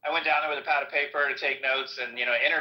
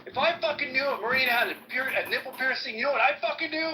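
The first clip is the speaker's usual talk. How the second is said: menacing threat; 10 semitones higher than usual. Retold or imitated. First sergeant threatens him.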